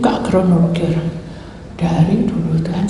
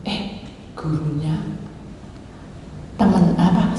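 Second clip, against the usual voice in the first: ordinary talk, nothing marked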